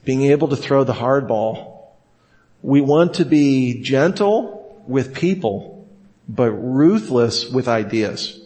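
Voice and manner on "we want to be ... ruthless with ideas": slow, weighty, stress on "ruthless"; slow first take. Shown as a demonstration. Teacher giving the maxim slowly the first time. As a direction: lay "gentle with people" down slowly. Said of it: "Let me repeat that".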